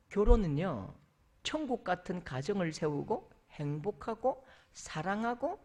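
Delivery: ordinary talk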